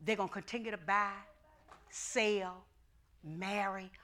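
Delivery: soft unvoiced whisper. Real, not acted. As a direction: drop to a whisper. Whispered climax.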